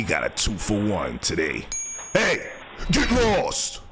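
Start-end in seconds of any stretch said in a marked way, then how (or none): 2.1-3.8 high, pitched-up holler; mock yell at a thief. Host chasing off a package thief, high mock yell. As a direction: shoo the thief away.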